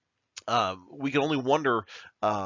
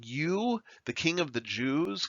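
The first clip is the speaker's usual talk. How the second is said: sarcastic; 5 semitones higher, slower than usual. Retold or imitated. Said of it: "kind of in a sarcastic tone".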